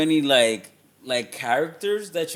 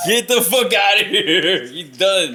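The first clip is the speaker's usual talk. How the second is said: high, loud mock kick-out; hammed-up producer throwing someone out; mock dismissal; 6 semitones higher, 9 dB louder, slower than usual. Host playing producers firing the actor, mock outrage. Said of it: "They were like".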